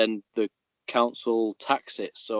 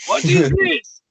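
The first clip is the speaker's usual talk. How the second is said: high, loud, slow mock Russian accent; 6 dB louder, slower than usual. Copying the friend's pyramid builder in hammed-up Russian. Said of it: "it sounded Russian".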